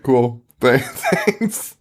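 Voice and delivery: imitating an unimpressed reply, amused; mock unexcited. Blind girl answering about candles, mock unimpressed. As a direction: act politely uninterested, with a little laugh. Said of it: "blind girl isn't excited".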